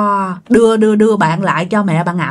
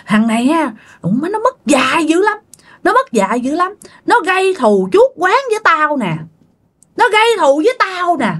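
higher-pitched indignant cursing; acted angry grievance; 6 semitones higher than usual. Spirit cursing the man who wronged it, acted indignant. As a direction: complain bitterly as the wronged spirit.

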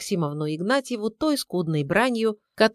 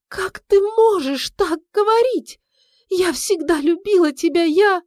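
wounded wife; 12 semitones higher, 6 dB louder than usual. A narrator's reading. Wife crying out at her husband, high and wounded. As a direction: plead in hurt disbelief. Wife's tearful high protest.

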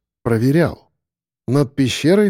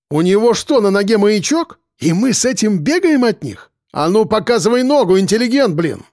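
outraged shout; 6 semitones higher than usual. A narrator's reading. Rich kid jumps up, shouts.

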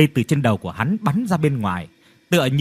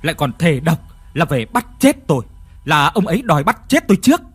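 resentful growl; 3 semitones higher, 3 dB louder than usual. Acted. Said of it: "hậm hực rồi gằn giọng".

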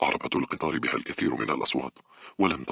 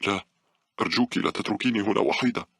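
higher-pitched frustrated plea; 7 semitones higher than usual. A narrator's reading. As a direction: plead in mild dismay, pitched up. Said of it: "قالت باولا بإحباط".

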